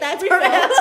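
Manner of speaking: high laughter through sign-off; laughing. Real, not acted. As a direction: laugh while wrapping up. Closing the episode laughing.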